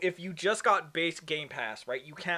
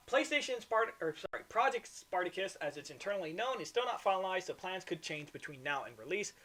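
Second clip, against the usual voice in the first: reading an article aloud; steady news-report reading. Acted.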